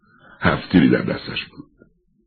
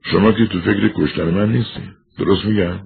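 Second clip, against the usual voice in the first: almost impatient; 5 semitones higher than usual. Acted.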